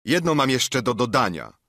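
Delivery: calling out. A narrator's reading. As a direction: call it out with modest force. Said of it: "zawołał stary marynarz".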